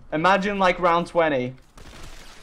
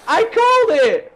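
smug triumph; 4 semitones higher, 4 dB louder, slower than usual. Real, not acted. Prediction of death comes true.

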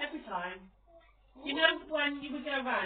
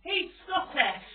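put-on loud, higher, slow kid's announcement; mock childish exclamation, drawn out; imitated announcing child; 6 semitones higher, 9 dB louder, slower than usual. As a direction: call it out like an excited kid. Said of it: "she turned around and she said".

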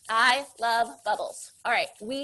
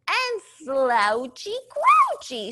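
slouchy grouchy voice; 4 semitones higher, 3 dB louder, slower than usual. Shown as a demonstration.

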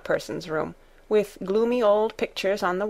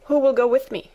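inquiring; 6 semitones higher, 5 dB louder than usual. A narrator's reading. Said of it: "she inquired".

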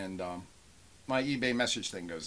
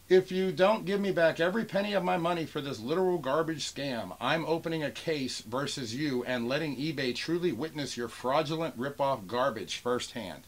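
mock temper tantrum; 4 semitones higher than usual. Vlogger reading a buyer's eBay threat aloud, mock temper tantrum. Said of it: "this is the guy having a temper tantrum".

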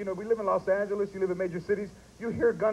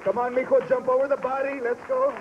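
Mexican mom; 5 semitones higher than usual. Pretend. Mexican parent quote.

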